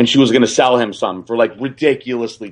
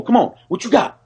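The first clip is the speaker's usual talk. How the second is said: grandpa taunt; 10 semitones higher than usual. Retold or imitated. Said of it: "he's going".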